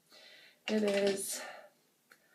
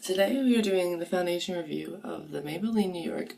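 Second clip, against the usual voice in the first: hoarse, voice giving out; cracking voice; 5 dB louder than usual. Real, not acted. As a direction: sore throat, voice cracking on the line. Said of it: "oh my god, my voice".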